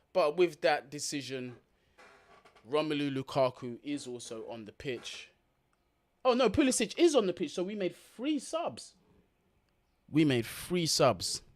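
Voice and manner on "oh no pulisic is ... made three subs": surprised correction. Real, not acted. Correcting himself mid-commentary.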